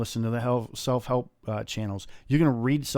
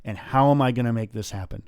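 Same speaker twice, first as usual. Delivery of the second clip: self-questioning; 5 dB louder than usual. Retold or imitated. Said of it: "look at yourself in the mirror, and go".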